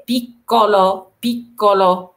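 "بيكولو" split on a held double k; doubled hard k. Shown as a demonstration. Teacher repeating the word for learners, doubled hard k. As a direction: model "بيكولو" twice, stopping on the long k. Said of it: "كررت الحرف تشي على إنه كا كا".

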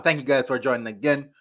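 ordinary talk

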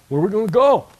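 loud, incredulous Peter; Peter's exclaim. Retold or imitated. Peter answering Jesus, loud and incredulous. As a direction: throw it out like Peter pleading. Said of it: "And Peter goes".

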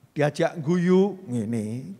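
slow, stone-faced, barely a sound; mock stiff statue. Shown as a demonstration. Preacher mocks a listener who won't smile, deadpan. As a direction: play a congregant who won't laugh. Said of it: "Ki patung apa menungso?".

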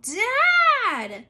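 put-on girl yelling for her father. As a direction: shout for him across the house. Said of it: "Abby yelled".

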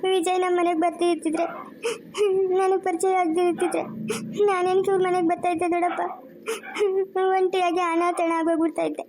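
tearful pleading to her uncle, sobs in the voice; crying. Acted. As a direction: speak through tears, grieving what might have been. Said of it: "ಅಳ್ಬೇಡಮ್ಮ, ಅಳ್ಬೇಡ". (ಅಳುತ್ತಾ ಮಾತನಾಡುವುದು)

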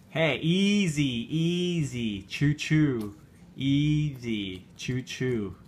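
slow, stretched words easing off; long, falling, cautioning words; drawn-out caution. Real, not acted. Parent slowing down child's eating.

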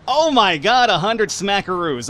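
high, gleeful exclaim; gleeful delight. Real, not acted. Player gloating over a hundred-dollar bribe, gleeful and high. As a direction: savour the bribe money.

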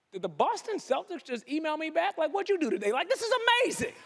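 rising thrilled amazement; giddy at a rejection email; hyped disbelief. Retold or imitated. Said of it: "I get hyped".

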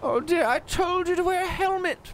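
put-on fussing old lady. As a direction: scold gently like a nan. Elderly lady voice held.

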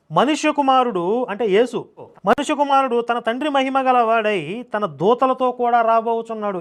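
slow, sustained scripture recitation; intoned Bible reading. Acted. Preacher reading Matthew's gospel to listeners, solemnly intoned. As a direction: chant it on a held note.

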